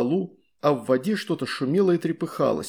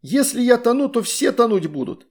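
desperate shout; 8 semitones higher, 4 dB louder than usual. A narrator's reading. Drowning girl shouting.

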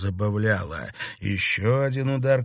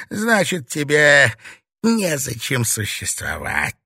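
cold lecture building to a raised threat; lightly voiced domineering old witch; contemptuous witch mistress; 4 dB louder than usual. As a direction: belittle the novice, then threaten.

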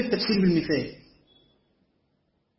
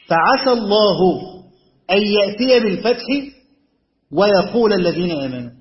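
فعسى الله أن يأتي بالفتح ويقول read as one joined phrase, louder; 3 semitones higher, 5 dB louder than usual. Shown as a demonstration. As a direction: join ويقول straight onto يأتي in one breath. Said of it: "معطوفة على يأتي".

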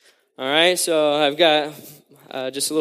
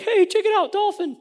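high-pitched excited call; squealed wonder, acted out; amazed onlookers. Israelites crossing the sea spot a dolphin, high excited voice.

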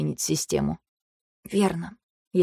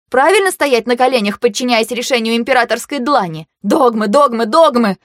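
loud, building angry rant; carried away; 5 semitones higher, 5 dB louder than usual. A narrator's reading. Vayu rants at Kantor about dogma, louder and angrier. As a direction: let the rant run away with you. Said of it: "Меня уже несло".

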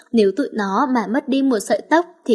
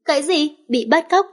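high, incredulous "bị bắt cóc?" rising at the end; shocked question; 5 semitones higher than usual. Acted. Echoes kidnapping news in shock.

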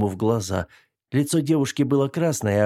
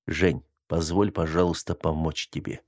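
hesitant; 5 semitones lower, 3 dB quieter than usual. Acted. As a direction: ask softly, unsure of yourself. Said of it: "неуверенно произнёс Макс".

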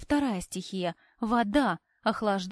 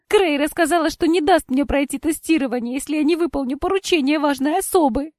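tearful plea; 6 semitones higher, 8 dB louder than usual. A narrator's reading. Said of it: "Кора всхлипнула".

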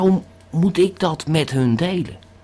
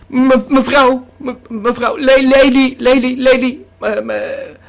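hoger en harder iemand aanroepen; roepen; 6 semitones higher, 6 dB louder than usual. Acted. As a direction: roep de mevrouw over het strand. Roept wazig een vrouw aan. (luid aanroepen, hoger en harder)

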